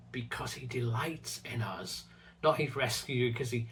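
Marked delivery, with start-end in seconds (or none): 0.1-2.0 hushed whisper on delights; soft emphasis. Shown as a demonstration. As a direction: breathe the words out, almost whispered. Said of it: "But the verse says".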